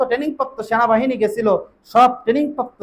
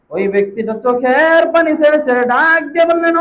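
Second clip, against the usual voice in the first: melodic preaching. Real, not acted. Melodic sermon storytelling.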